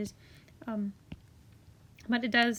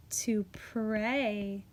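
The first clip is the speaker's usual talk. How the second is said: whisper; 2 semitones lower than usual. Real, not acted. Teacher whispers the pun to the class. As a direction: whisper it like a little secret joke.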